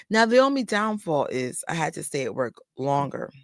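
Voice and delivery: usual speaking voice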